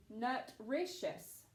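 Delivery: NUTRITIOUS said with a short u, as nut-RISH-us. Shown as a demonstration. Teacher shows a wrong syllable division, NUTRITIOUS as nut-rishus. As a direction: mispronounce "nutritious" so it starts like "nut". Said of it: "The U is not short".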